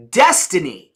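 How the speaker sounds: DESTINY punched and set apart; emphatic power word. Shown as a demonstration. Speaker showing audience the power of emphasis, DESTINY stressed. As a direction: hit DESTINY firmly, then stop. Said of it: "if I do it like this".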